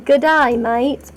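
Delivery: light mock Australian accent. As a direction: greet like a put-on Australian. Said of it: "Oh, you're Australian".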